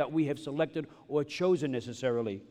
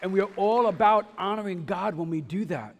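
raised, louder preaching voice; higher and louder, driving the point; emphatic proclamation; 4 semitones higher, 5 dB louder than usual. Real, not acted. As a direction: proclaim it to the whole congregation. Preacher proclaims, then repeats it quietly.

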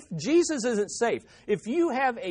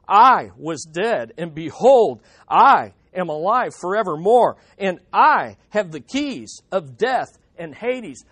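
proclaiming Scripture; 3 semitones lower, 7 dB louder than usual. Acted. Preacher reading Christ's words to John, loud and solemn. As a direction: boom it out as the risen Lord. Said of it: "let's read verses seventeen through eighteen".

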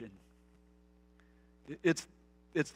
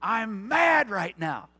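put-on sulky child; 6 semitones higher, 12 dB louder, slower than usual. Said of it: "To which we say".

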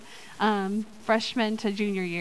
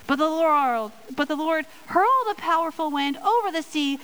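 lively storytime reading, pitched up on key words; kids story voice; 2 semitones higher than usual. Acted. Kids ministry leader reads Jonah aloud in a fun storytime voice. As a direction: read it like story time for children. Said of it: "I'm gonna break out my Kidmin voice".

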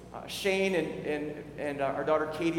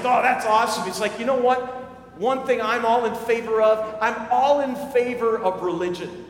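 enthusiastic stranger; 4 semitones higher, 6 dB louder than usual. Retold or imitated.

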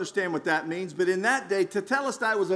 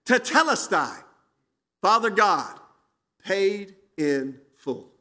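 mildly raised, emphatic cry; slower than usual. Acted. Jesus dying on the cross to Father God, crying out. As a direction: proclaim it in a moderately raised voice. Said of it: "he cried out in a loud voice".

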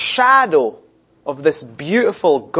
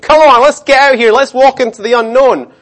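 higher, louder rallying call; urging on; 7 semitones higher, 7 dB louder than usual. Retold or imitated. Moses urges Israelites into the unknown, rallying loudly. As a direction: rouse a hesitant crowd to move. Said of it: "He made".

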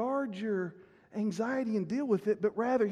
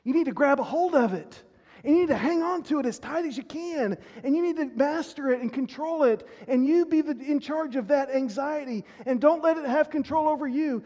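voicing the pushy world; 3 semitones higher, 3 dB louder than usual. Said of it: "The world says".

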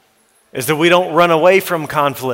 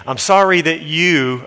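insincere apology; 2 semitones higher than usual. Shown as a demonstration. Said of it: "We don't wanna ever say".

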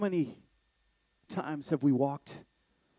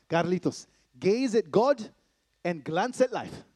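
dad's bedtime call; 5 semitones higher, 5 dB louder, slower than usual. Retold or imitated. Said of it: "Every night before I go to bed".

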